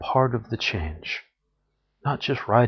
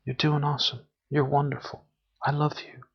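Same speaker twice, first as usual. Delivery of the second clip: warm affirmations; 4 semitones higher than usual. Shown as a demonstration.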